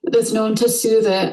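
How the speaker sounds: deepening into the wound. Real, not acted. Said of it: "listen to her voice changing".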